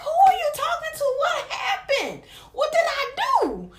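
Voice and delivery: very high, incredulous comeback; retold indignant protest. Her answering the boyfriend in the car, high indignant retold protest. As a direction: fire back the questions in a high, mock-outraged voice.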